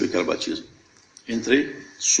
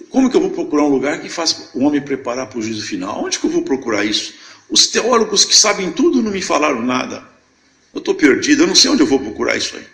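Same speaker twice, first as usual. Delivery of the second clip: raised, pleading complaint of a man at a loss; exasperated questioning; 4 semitones higher, 4 dB louder than usual. Retold or imitated. Retelling his lost search to the congregation, exasperated. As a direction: throw the questions out in frustration.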